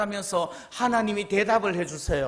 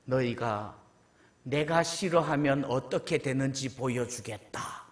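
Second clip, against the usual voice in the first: God's warning; 7 semitones lower, 5 dB quieter, slower than usual. Acted. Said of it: "이게 하나님 말씀이에요".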